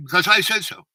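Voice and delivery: retold fatherly shout, high and loud; loud, insistent mock command; screaming orders. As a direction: imitate a colonel dad pulling rank. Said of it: "he started just screaming orders".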